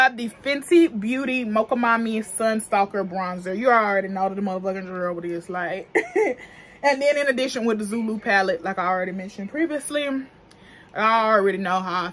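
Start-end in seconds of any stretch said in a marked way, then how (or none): 5.9-6.4 quick bright burst of laughter; short high laugh. Real, not acted. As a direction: laugh out at your own joke. Laughs at her own joke.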